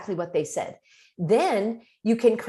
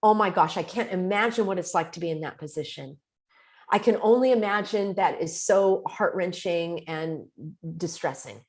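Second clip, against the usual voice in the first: empathetic. Shown as a demonstration. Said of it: "expressed the empathy".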